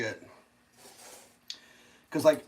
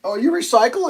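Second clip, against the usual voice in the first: high, louder mocking echo; mocking sarcasm; 11 semitones higher, 8 dB louder than usual. Mocking the recyclers once more, high and sneering. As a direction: taunt them with it again. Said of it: "And they start".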